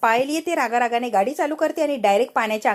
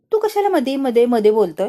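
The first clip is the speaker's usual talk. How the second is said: scolding granny; 4 dB louder than usual. Acted. Grandmother scolds Raja for interrupting, sharp and loud. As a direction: tell him off for butting in.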